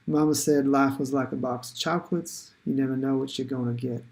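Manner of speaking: light, badly faked southern accent. Shown as a demonstration. Teacher quoting a film for students in a shaky-attempt southern accent. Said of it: "my southern accent, which will be terrible".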